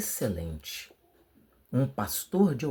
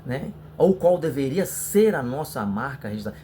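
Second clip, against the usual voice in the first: sample sermon opening; 3 semitones higher than usual. Shown as a demonstration. Preacher showing students how to open a youth lesson, lightly preached. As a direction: open the talk like a youth leader addressing the brothers. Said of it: "Então você pode iniciar assim".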